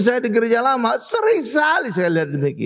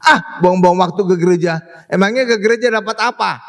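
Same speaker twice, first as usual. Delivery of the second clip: stinging; 3 semitones lower, 3 dB louder than usual. Retold or imitated. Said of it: "Nyelekit gitu ngomongnya".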